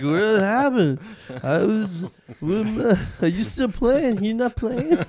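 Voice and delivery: high, loud mock bewilderment; bewildered outcry. Host playing a parent waking up broke, bewildered outcry. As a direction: act out a hammed-up, dumbfounded parent. Acts out waking up to empty wallet.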